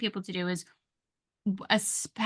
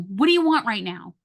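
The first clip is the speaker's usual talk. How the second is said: irritated demand; 5 dB louder than usual. Shown as a demonstration. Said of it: "Rather than going".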